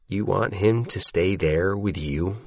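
slow question leaning on YOU at the end; drawn-out line, "you" emphasized last; stress on last word. A narrator's reading. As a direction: put the weight on the final "you". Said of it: "puts the emphasis on that last word".

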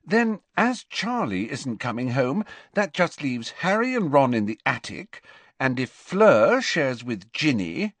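high, busy motherly voice; Missus Weasley, organising. A narrator's reading. Mother working out who sleeps where, organising. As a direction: reckon up the beds in a high-pitched voice.

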